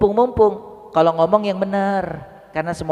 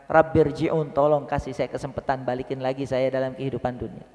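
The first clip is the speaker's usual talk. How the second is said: pleading dead man; 4 semitones lower, 5 dB quieter than usual. Acted. Dead man begging to return.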